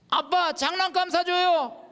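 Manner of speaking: put-on high, slow begging little kid; child's voice. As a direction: whine for a toy like a small child. Child asks daddy for toy. (장난감 사달라고 조르는 아이)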